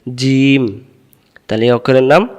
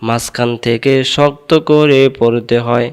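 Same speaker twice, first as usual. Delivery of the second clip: slow recitation. Shown as a demonstration. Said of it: "আমি দুইবার বলি".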